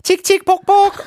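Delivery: high, loud chugging train voice. Shown as a demonstration. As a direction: chug it out like a toy train. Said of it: "I'll do it in my favorite train voice".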